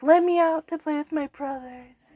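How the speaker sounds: high, pleading puppy voice; little dog whining to play, lightly voiced; dog's voice. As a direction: voice the dog begging to go out. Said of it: "cry that says, like".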